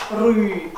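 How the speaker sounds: rü with a hard R and retracted vowel; hard, open-mouthed vowel. Shown as a demonstration. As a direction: say rü round a big strawberry. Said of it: "like a big strawberry in your mouth".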